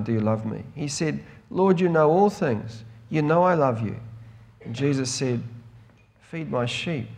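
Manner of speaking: measured Bible reading with firm emphasis; deliberate, spaced-out phrases of a public reading; scripture reading. A narrator's reading. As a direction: read the passage out clearly to a congregation. Reads the scripture aloud.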